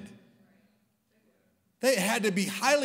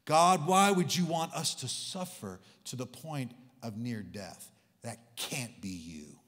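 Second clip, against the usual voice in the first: imitating an anguished prayer; 8 semitones lower than usual. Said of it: "our emotional responses to storms".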